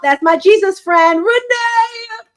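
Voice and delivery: loud, rising, high-pitched cheer; excited shout-out. Real, not acted. Host spotting a friend while presenting her book, excited shout-out.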